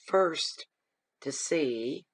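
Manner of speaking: hoarse, sore-throated voice. Real, not acted. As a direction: speak through a hoarse throat. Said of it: "yes, I'm hoarse".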